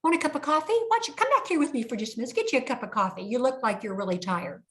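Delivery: falsely sweet high coaxing voice; Daryl the banker. Retold or imitated. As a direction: lure her away with syrupy kindness. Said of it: "And Daryl says".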